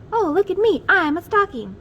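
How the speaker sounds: high, loud showing-off; delighted squeal. Acted. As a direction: squeal with glee. Crayon dressed as stocking.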